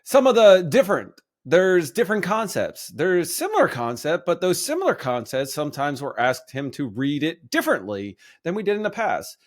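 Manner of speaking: lightly done coach impression with a hint of Italian; a touch of an Italian-American coach's voice; Sirianni voice. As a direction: mildly imitate a coach giving a press answer. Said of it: "I hope you like my Sirianni voice".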